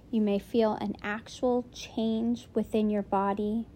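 steady meditation voice with long pauses between phrases; unhurried, soothing meditation lead; guided meditation. Real, not acted. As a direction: gently guide them to settle in.

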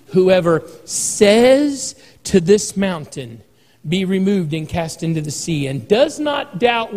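slow, swelling scripture proclamation; preaching at full force. Acted.

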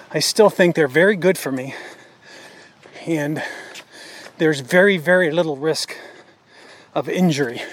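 huffing and puffing while jogging; winded, talking between breaths. Real, not acted. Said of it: "sorry for the huffing and puffing".

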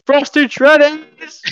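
high, drawn-out retold cry; long high-pitched mock squeal; excited announcing cry. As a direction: re-enact bursting in, squealing it slowly. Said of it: "So I ran in the room going".

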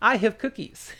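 mock creepy offer, laughing. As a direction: ham up the creepy stranger. Joke villain line, laughing.

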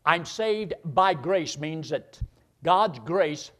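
slow emphasis. Acted.

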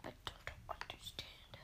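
faint breathy zombie whisper; zombie moan. Pretend. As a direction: fade out like a dying zombie. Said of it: "to do zombie noises".

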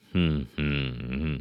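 closed-mouth humming around a mouthful; mouth-full hums. Acted. The horse, chewing grass, hums a reply with his mouth full. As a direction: hum through a mouthful of grass. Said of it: "dünnyögte sólyom tele szájjal".

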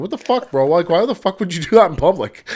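retold scolding of his wife in public; mock yelling. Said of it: "I yell at her after I fart".

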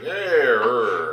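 a light imitation of a Boston accent; drawn-out Boston "yeah", lightly put on. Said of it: "they had the accent".

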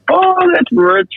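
high, laughing, slow that's rich. Real, not acted. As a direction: laugh it out incredulously.

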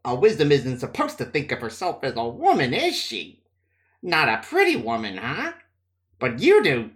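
sly, mocking taunt; sneering. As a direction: needle her cruelly. Matt mocks Nynaeve.

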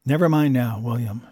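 gentle. Acted. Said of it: "she said gently".

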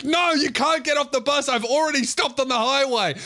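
high, exasperated refusal; the driver refusing the bleeding man; snapping driver. Retold or imitated. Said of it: "the guy's like".

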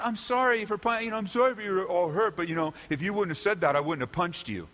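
mock apology sliding into blame; hurried non-apology, lightly acted; excuse-making apology. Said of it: "It's not".

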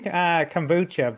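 kombucha in a Cork accent. Real, not acted. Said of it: "that's probably my Cork accent".

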